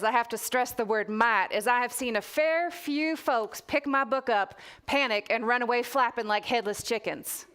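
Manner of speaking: put-on reading in a light Texas accent; storyteller slipping into a mild Texas accent. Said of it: "I'm gonna put on a Texas accent now".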